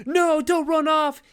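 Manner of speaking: high, loud shout after someone running off; calling out. Retold or imitated. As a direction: yell after him to stop him leaving. Calling after fleeing roommate.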